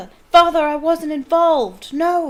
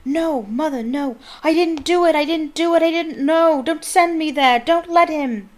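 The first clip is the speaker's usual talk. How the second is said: high, loud panicked screams; a boy screaming as he is condemned; frantic high shouted pleas; 9 semitones higher, 11 dB louder than usual. Acted. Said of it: "The boy began to scream".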